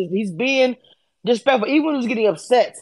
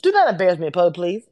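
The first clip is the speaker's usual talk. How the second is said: low, measured mother's warning; a firm request in a lowered voice; 4 semitones lower, faster than usual. Acted. Mother asking her child to behave in public, low and controlled. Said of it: "a mother will request from a child".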